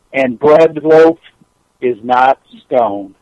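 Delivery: measured recital with long pauses; poem recital. Acted. Caller shares a poem by Maya Angelou, measured recital. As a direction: set each short phrase apart, unhurried.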